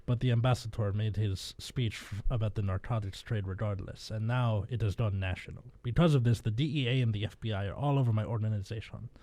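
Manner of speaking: put-on weak Spanish accent that drifts Russian. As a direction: read it in a shaky Spanish accent. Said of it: "like, a Spanish accent".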